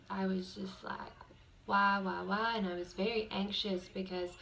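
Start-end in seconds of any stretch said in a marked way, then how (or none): 1.7-2.5 angry why. Retold or imitated. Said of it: "I was so angry".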